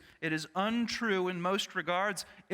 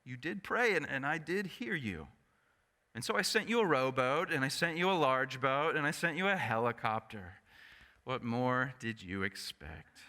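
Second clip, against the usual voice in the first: calm divine reply; 2 semitones lower than usual. Retold or imitated. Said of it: "God replied".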